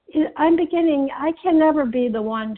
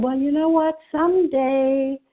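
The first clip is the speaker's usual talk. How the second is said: lightly voiced sweet old lady, a touch higher; little old lady voice; 3 semitones higher, 3 dB louder than usual. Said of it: "I put on my little old lady type voice".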